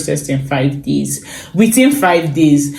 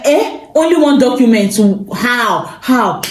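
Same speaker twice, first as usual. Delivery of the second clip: mock panic; 5 semitones higher than usual. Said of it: "I was panicking".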